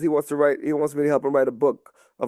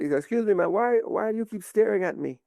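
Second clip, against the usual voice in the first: put-on dad's Jamaican accent, pitched up; 5 semitones higher than usual. Jamaican dad to a staring older woman, Jamaican accent. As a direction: imitate a polite Jamaican man asking. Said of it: "he's Jamaican".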